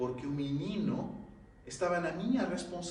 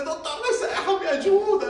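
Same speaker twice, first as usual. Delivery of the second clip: high, loud cry with a laugh in it; desperate cry; 14 semitones higher, 9 dB louder than usual. Retold or imitated. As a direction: call out to the spirit, half laughing. Crying out to spirit underwater.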